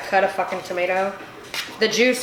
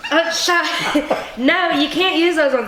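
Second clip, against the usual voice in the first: higher, laughing objection; amused, raised-pitch comeback; laughing protest; 5 semitones higher than usual. Real, not acted. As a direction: brush off the correction through a laugh. Laughs off being corrected.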